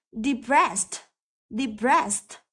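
Depressed with ss as a light s; careful model Depressed with a voiceless s before the end; light s sound. Shown as a demonstration. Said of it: "cũng có âm s". (phát âm Depressed với âm s nhẹ)

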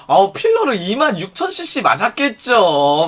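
slow, exaggerated mock exclamation; sarcastic comeback. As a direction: stretch it out in mock disbelief. Acted sarcastic comeback to filler excuse.

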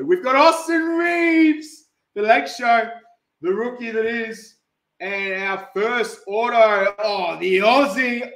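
showy card-break call; hype announcer. Acted. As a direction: announce the rookie to the room.

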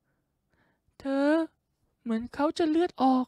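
high girlish falsetto imitating the woman; shrill girl's voice. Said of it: "เสียงแม่งแหลมมาก".

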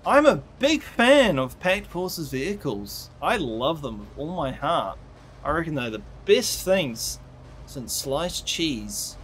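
dry, mock-gushing praise, slowing right down at the end; sarcastic. Real, not acted. Gamer mocking Pact Forces vehicles he hates, sarcastic. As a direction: gush about the tanks while meaning the opposite. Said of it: "If you cannot hear the sarcasm in my voice".

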